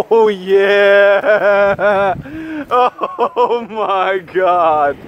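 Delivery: excited. Real, not acted. Excited reaction to a catch.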